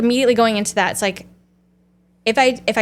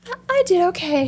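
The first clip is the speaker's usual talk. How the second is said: laughing self-praise; 11 semitones higher than usual. Retold or imitated. Mock self-praise after hard talk.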